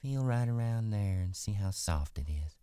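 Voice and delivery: put-on coaxing young woman. Curly's wife voice.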